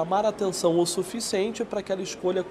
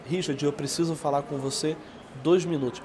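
tom mais fechado; 2 semitones lower, 3 dB quieter than usual. Shown as a demonstration. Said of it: "um tom de voz mais fechado".

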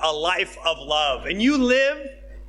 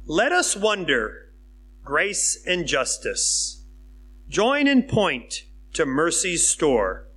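slow, measured hymn reading; hymn recital; slower than usual. Acted. Preacher to congregation, reading a hymn verse slowly. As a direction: read the lyric slowly, savouring each line.

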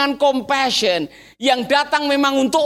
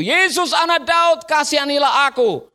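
raised, pleading call; crying out; 3 semitones higher than usual. Acted. Blind beggar calling to Jesus, crying out. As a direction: call out, pitched up. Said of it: "mulailah ia berseru".

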